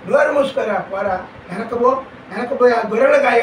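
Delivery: a sharp, loud, brotherly dismissal, pushed fast at the end; mock angry scolding. Older brother shooing young David back to his sheep, loud mock scolding. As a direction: bark the boy away like an annoyed big brother.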